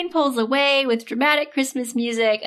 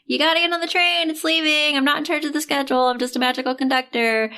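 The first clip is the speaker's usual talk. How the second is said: fussy conductor; 3 semitones higher than usual. Retold or imitated. Conductor hurrying her onto the train, higher impatient voice. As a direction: rush her aboard impatiently. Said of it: "Christopher is like".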